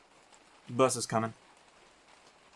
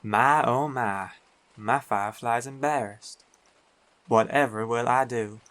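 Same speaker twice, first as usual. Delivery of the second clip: teasing; 4 dB louder than usual. Acted. Teasing his blushing girlfriend.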